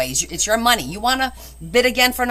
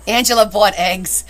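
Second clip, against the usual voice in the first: laughing; 4 dB louder than usual. Real, not acted. Laughing at a funny bid.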